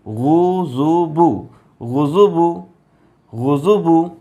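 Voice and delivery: each syllable drawn out, very slow; slow syllable demo. Shown as a demonstration. Teacher blending pesh syllables, very slow. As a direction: spell it out slowly. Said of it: "बे पेश बू".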